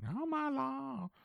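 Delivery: a bad, high, slow Minnesota accent; Frances McDormand Fargo accent. Recalling the Fargo movie to his co-host, bad Minnesota accent. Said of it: "I can't do her accent".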